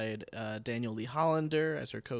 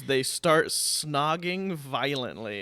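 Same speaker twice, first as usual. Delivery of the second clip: slow reading; 2 semitones higher, 8 dB louder, much slower than usual. Acted. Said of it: "and then it says".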